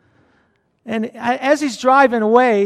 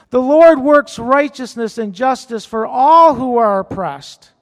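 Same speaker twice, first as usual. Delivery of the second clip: fervent scripture reading. Acted. Pastor reading Psalm 103 aloud, proclaiming. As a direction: declare the psalm to the congregation.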